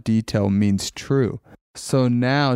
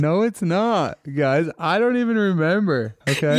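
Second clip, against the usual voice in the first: defensive; 6 semitones higher than usual. Real, not acted. Defending herself, teased.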